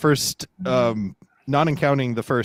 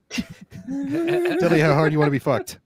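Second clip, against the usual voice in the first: slow mock sultry; 2 semitones higher, slower than usual. Slow mock sexting line.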